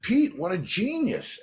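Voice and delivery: a hint of an indignant fan defending Pete; lightly played guitarist sticking up for Pete; mock protest. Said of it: "And Godfrey goes".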